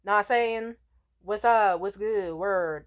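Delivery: lightly imitated African American accent; mock a white guy putting on a Black accent. White buddy greeting people, imitated Black accent. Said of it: "like, a black scent".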